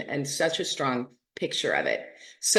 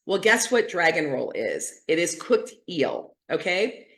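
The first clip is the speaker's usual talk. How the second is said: normal talking voice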